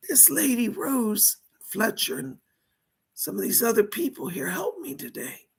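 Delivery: dead mobster speaking through a medium; seance medium. Pretend. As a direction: channel a lost spirit, pleading.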